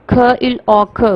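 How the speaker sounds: ख इल औ ख stretched slowly, sound by sound. Shown as a demonstration. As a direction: drag out each sound in ख इल औ ख. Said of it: "एक दफ़ा फिर से रीड कर लेते हैं". (ख इल औ ख को बहुत धीरे हर ध्वनि अलग करके बोलें)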